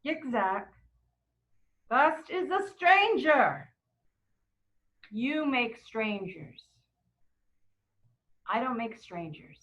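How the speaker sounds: measured, weighty answer with long pauses; voice of God. Retold or imitated. God answering the survivor, slow and deliberate. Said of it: "And God says".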